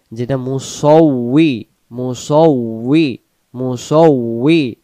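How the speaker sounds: মুসাউই with a clear w sound, no b; correct pronunciation. Shown as a demonstration. Teacher warning students not to say মুসাব্বি, careful w sound. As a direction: stress মুসাউই slowly, w not b. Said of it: "এটা খুব গুরুত্বপূর্ণ একটি শব্দ".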